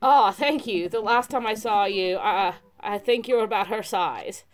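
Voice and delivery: chill surfer, happy reunion; surfer dude voice. Acted. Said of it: "the surfer dude voice has gotta stay".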